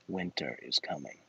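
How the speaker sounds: deep, soft ominous whisper of winter is coming; low hushed doom, like a fantasy warning; ominous mutter. Pretend. Ominous hush to the viewers about winter.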